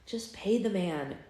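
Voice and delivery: exasperated. Acted. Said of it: "Red said exasperatedly with a sigh".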